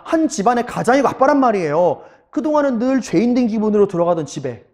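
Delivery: ordinary delivery, nothing marked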